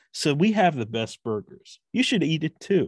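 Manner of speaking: friendly, conversational commercial read, pitched a bit up. Demonstrating today's commercial voiceover style, as if just talking to the listener. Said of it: "Now it's more like I'm talking to you".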